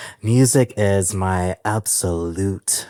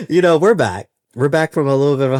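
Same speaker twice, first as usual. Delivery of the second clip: higher and louder, thrilled; excited announcement; 6 semitones higher, 6 dB louder, faster than usual. Real, not acted. Host telling listeners the podcast returns, excited. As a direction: burst out with the good news.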